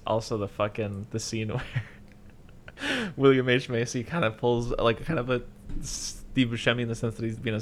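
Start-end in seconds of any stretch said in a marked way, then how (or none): none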